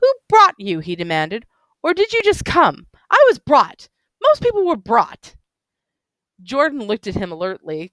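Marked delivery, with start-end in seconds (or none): 0.0-0.8 put-on higher, eager tipsy voice of an old bookish drunk; excited drunk man. 1.8-5.3 put-on higher, eager tipsy voice of an old bookish drunk; excited drunk man.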